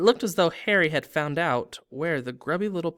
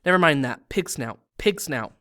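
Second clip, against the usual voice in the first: panting; 6 dB louder than usual. Acted. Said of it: "panted Harry".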